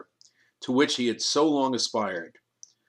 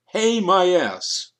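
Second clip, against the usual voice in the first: loud, slow, higher furious retort; angry outburst; 7 semitones higher, 6 dB louder, much slower than usual. Acted. Kriegel hurling back Fisher's placating word, loud and furious. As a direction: spit it back with contempt.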